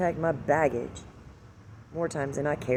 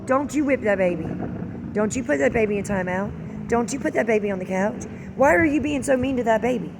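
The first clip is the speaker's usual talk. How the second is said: higher, louder nagging grandparent; grandparents scolding; 6 semitones higher, 5 dB louder than usual. Retold or imitated. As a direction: whine it in protest like a doting grandma. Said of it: "my parents would say".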